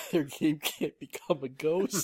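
laughing mock narration. Mocking trailer line, laughing.

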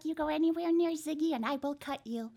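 low, fast menacing threat; threatening mom. Acted. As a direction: menace him quickly and low.

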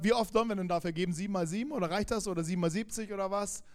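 a hint of a hasty Peter, fast; lightly voiced Peter. Peter cutting in on Jesus, quick and fast. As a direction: rattle off Peter's question quickly. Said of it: "Petrus grätscht rein und sagt".

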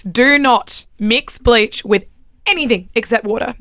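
slow, emphatic PSA warning. Shown as a demonstration. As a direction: spell it out word by word. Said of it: "I don't know who needs to hear this".

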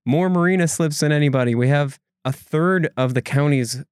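a hint of an exasperated local official, high-pitched; mock exasperated protest. Voicing Pam's proud exasperated reply.

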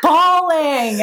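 laughing. Real, not acted. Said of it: "bawling in my".

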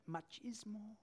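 machismo with a mock Spanish accent. Shown as a demonstration. The preacher showing off his Spanish accent. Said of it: "Hey, you hear that accent?".

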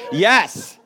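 laughing through the words; amused by his own joke; laughing yes. Real, not acted. Preacher joking with congregation about donuts, laughing.

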